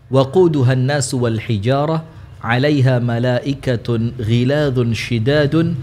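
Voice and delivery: slow chanted recitation; Quran recitation. Acted. Ustadz recites a verse to open the study, slow recitation. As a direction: recite the verse slowly and devoutly.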